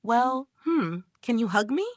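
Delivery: mildly acted bashfulness; shy. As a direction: ask timidly, with a small hum. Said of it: "she seems to shyly say".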